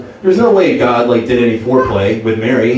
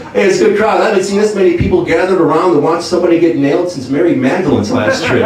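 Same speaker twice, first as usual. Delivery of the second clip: higher, upbeat club-comic patter; stand-up comic Jesus; 4 semitones higher than usual. Retold or imitated. Jesus on the cross opening his comedy set. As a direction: work the room like a cheesy headliner. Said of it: "ultimate stand-up comedian".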